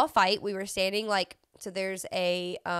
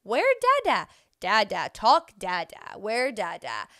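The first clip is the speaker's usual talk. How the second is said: put-on a light toddler voice calling for dad; imitating toddler; 5 dB louder than usual. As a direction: ask for Dada like a small child. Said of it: "He's like".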